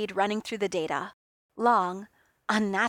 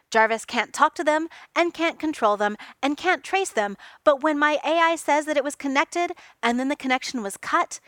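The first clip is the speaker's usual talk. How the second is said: louder, rising in heat; heated insistence; 5 semitones higher, 5 dB louder than usual. Acted. Tony heatedly defending Jarvis to Reed, louder. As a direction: defend the AI hotly. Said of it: "Tony snapped".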